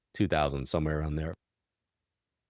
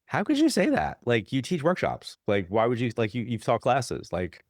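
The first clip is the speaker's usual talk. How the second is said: incredulous protest; 4 semitones higher than usual. Retold or imitated. Medium confronting her colleague after the moderators leave, incredulous. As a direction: demand how she could say that. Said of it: "I looked at her and I was like".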